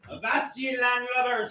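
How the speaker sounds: loud, high pirate shout. Acted. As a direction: bellow it like a pirate captain. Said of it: "ask in a pirate voice".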